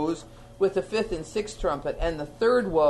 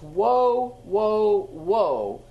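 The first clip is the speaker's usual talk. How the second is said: loud cry; 4 dB louder, much slower than usual. A narrator's reading. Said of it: "he called out in a loud voice".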